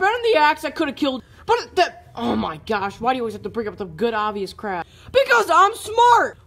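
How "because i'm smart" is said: smug boast. Acted. Smug retort in quarrel.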